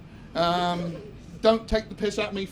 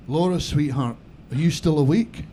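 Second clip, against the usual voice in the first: put-on Scottish accent; 5 semitones lower, 4 dB louder than usual. Whispering to his girlfriend in bed, a low Scottish accent. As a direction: lean in close with a put-on Scottish burr. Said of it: "try and put on a Scottish accent".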